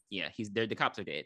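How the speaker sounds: words stretched by a yawn. Real, not acted. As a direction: talk through a sleepy yawn. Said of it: "Are you yawning?".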